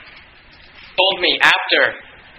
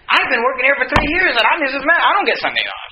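mildly indignant higher-pitched mock complaint; upset coworker; 6 semitones higher than usual. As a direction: imitate an aggrieved long-time employee, pitch dropping at the end. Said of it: "they were all upset about this".

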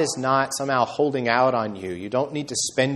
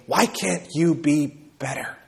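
mock scolding; 3 semitones higher than usual. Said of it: "glowering and scolding".

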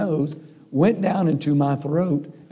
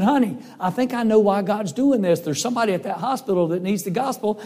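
excited; 4 semitones higher than usual. Retold or imitated. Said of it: "I was so excited".

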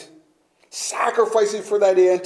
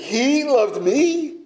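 slow, high, stunned question; higher, slow whisper of wonder; amazed disbelief; 7 semitones higher, much slower than usual. Pretend. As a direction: ask it as if you can't believe it. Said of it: "and then say".

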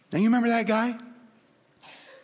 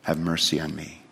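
humbly; 3 dB quieter than usual. Shown as a demonstration. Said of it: "You just say".

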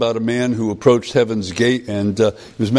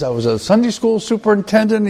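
much higher, eager pleading voice; anxious man; 10 semitones higher than usual. Retold or imitated. Man at heaven's gate pleads with the angel, high and eager. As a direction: list your merits anxiously. Man listing his deeds.

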